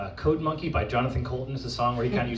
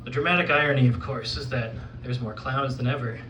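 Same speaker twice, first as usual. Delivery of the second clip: measured, understated spoken-word delivery; poetry recital; 3 semitones lower than usual. Acted. Poet reciting to an audience about the circus, poetry recital. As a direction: recite with weary, restrained disillusion.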